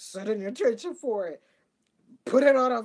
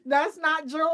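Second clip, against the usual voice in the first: universe laughing it off; 2 semitones higher, 4 dB louder, slower than usual. Retold or imitated. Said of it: "the universe is like".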